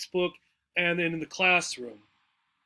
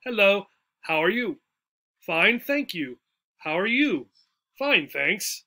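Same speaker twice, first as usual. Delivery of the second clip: dialogue read-aloud. Shown as a demonstration. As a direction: clear model reading of a short dialogue. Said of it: "I'll read it once here".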